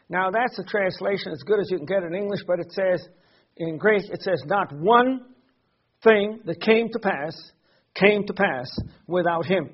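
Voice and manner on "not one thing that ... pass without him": slow, emphatic phrasing with pauses, weight on "one". Shown as a demonstration. Preacher quoting the Greek of John one to listeners, emphatic. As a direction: set "Not one" apart, then measure out the rest. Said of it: "Very emphatic upon the fact".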